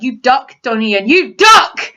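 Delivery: pleading fan cry. Retold or imitated. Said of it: "and you're like".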